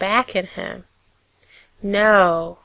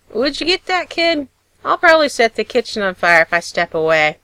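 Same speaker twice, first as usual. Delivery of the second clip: northern burr; 3 semitones higher, 5 dB louder than usual. Acted. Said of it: "slightly nasal northern burr".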